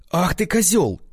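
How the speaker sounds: a high, stung cry of outrage; indignant outburst. A narrator's reading. Rejected girl insults Sasha before slapping, high outraged cry. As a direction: hurl the insult at him.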